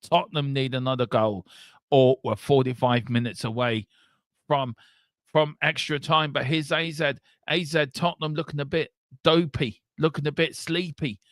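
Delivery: live match commentary; calling the second half kick-off; play-by-play commentary. Acted.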